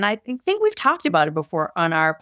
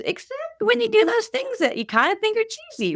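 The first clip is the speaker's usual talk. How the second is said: inner critic voice; 14 semitones higher than usual. Retold or imitated. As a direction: play the snide voice in your head. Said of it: "And then there's a voice".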